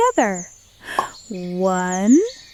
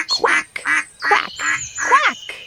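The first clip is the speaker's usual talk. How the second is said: duck quack. Shown as a demonstration. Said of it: "What does a duck say?".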